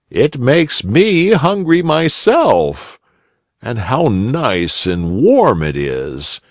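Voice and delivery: put-on eager old gentleman; old rabbit gentleman. A narrator's reading. Uncle Wiggily voice.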